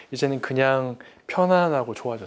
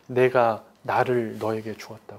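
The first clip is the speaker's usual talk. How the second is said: God's tender voice; 5 semitones lower, slower than usual. Acted. Voicing God's reply gently.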